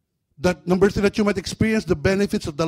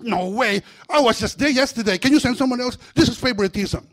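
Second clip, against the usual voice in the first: high, loud whining demon; protesting demon; 8 semitones higher, 6 dB louder than usual. Acted. Preacher voicing a demon crying favoritism, high and loud. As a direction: whine that it's unfair.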